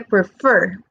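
"prefer" with the weight on "fer"; stress on final FER. Shown as a demonstration. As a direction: lean on the ending of "prefer". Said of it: "es más fuerte en la terminación fer".

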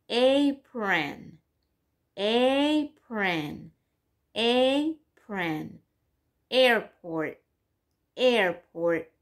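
"Apron" and "Airport" with a clear long "ay" start; long A words. Shown as a demonstration. Teacher listing long-A words for the class. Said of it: "That means it's a long".

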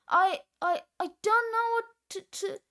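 haltingly stammer, overcome with feeling; a touch of emotion, tripping over the words; lost for words and moved; choked up. Acted.

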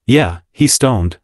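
slow, quiet, weighted words; quiet emphasis. Acted. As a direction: lean on each word, slowly. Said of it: "with quiet emphasis".

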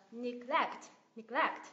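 "neglect" with GLECT stressed; quick "ne", punched GLECT in "neglect"; second-syllable stress. Shown as a demonstration. Teacher modelling the verb "neglect", stress on GLECT. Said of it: "Nhấn tiếp thứ hai".

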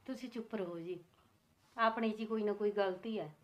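soft, restrained hushing; quietly calm an arguing husband; hushed pacifying. Acted. Wife hushes husband during quarrel. (ਧੀਮੀ ਆਵਾਜ਼ ਵਿੱਚ ਚੁੱਪ ਕਰਾਉਣਾ)

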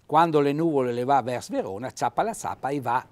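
reciting a dialect proverb; Trentino dialect. Shown as a demonstration. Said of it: "e la ora".

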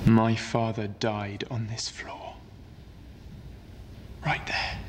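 hushed, slow whisper. Acted. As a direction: whisper it where he fell. Quiet grief on the senate floor.

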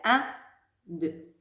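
steady count-in beat; teacher counting the pulse aloud. Shown as a demonstration. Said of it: "on refait encore une fois".

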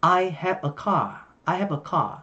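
British "car" with no r; British non-rhotic "car"; British accent. Shown as a demonstration. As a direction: say "car" as "cah", British style. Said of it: "Giọng Anh thì là".

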